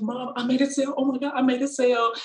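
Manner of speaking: put-on high, fast, giddy girl's voice; excited daughter. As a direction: imitate her thrilled squeal of success. Daughter's first sale, retold.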